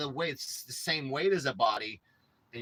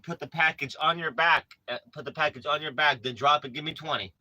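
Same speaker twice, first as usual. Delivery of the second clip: barking gym coach; 5 dB louder than usual. Acted. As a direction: bark orders like a boot camp coach. Yelling at Granny to exercise.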